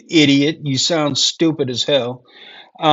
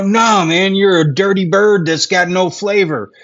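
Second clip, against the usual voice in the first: mildly indignant, raised pitch; mock scolding; 4 semitones higher, 3 dB louder than usual. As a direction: tell off a country in mock outrage. Mock scolding the renamed country.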